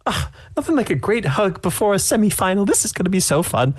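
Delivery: high, chipper granny; cheery old lady. Acted. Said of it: "she's like".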